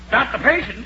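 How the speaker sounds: puzzled, rising not the patient?; puzzled question. Acted. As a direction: ask it back in disbelief. Doctor is puzzled by the news.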